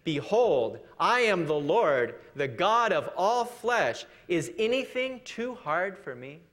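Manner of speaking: slow, solemn Lord speaking. Acted. The Lord speaking to Jeremiah, slow solemn voice. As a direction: declare it slowly as God. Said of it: "and he says this".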